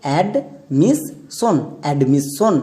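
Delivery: অ্যাডমিশন stretched out slowly, then repeated; slow drawn-out model reading. Shown as a demonstration. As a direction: drag out অ্যাডমিশন like a teacher modelling it. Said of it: "একসঙ্গে উচ্চারণ করো".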